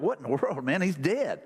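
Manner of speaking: light snickering disbelief, imitated; mock snicker. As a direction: imitate a scoffing crowd with a small laugh. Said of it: "everybody kinda snickered".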